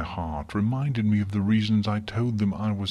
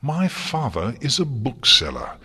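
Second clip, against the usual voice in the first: higher, louder defiant fury; a daughter furiously defending her father; enraged; 5 semitones higher, 6 dB louder than usual. A narrator's reading. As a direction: throw it back at her in rage. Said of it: "stamped a hoof in rage".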